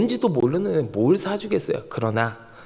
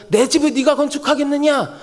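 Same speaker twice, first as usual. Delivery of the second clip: high-pitched, pointed question; challenging God; 6 semitones higher than usual. Acted. God questions David about building His house, pointed challenge. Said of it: "뒤에 붙는 느낌이 뭐야?".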